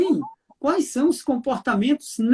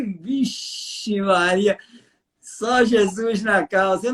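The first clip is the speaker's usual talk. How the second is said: mock exasperation; 2 semitones lower, much slower than usual. Exasperated reaction to wife.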